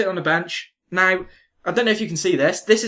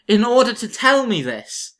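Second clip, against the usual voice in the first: slow, raised indignant retort; 4 semitones higher, 5 dB louder than usual. Retold or imitated. Complaining to the hair-touching stranger, slow and indignant. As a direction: demand it, slowly and a little louder. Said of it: "I was like".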